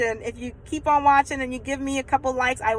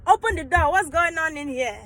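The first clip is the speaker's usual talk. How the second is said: imitated mother demanding entry, raised voice; African mother; 5 semitones higher than usual. African mother at daughter's bedroom door, demanding. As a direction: play the stern mum at the door. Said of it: "African mother on the door".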